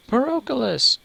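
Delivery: high cry of a mother; a mother cries for her lost son. Acted. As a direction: call out the son's name in fear. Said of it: "a woman cries".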